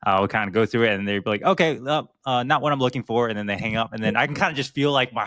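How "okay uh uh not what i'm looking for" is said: higher, lightly voiced disappointed caller; a hint of an unimpressed caller; mock let-down caller. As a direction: shrug it off and get ready to hang up. Caller quoted before hanging up.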